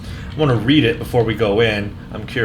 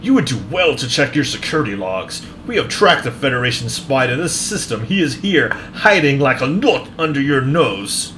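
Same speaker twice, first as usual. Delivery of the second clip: arrogant Klingon officer; 3 semitones higher than usual. Acted. Voices Klingon officer dialogue.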